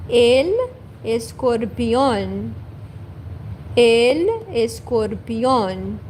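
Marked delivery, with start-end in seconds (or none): 1.0-6.0 "escorpión" drawn out with a tapped r; teaching pace on "el escorpión"; slow careful demo. Shown as a demonstration. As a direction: slowly model "el escorpión".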